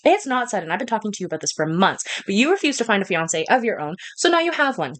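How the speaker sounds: insistent royal mother, lightly voiced; stern queen mother, impatient. Queen answering daughter's protest, impatient and firm. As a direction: push back firmly at a reluctant child.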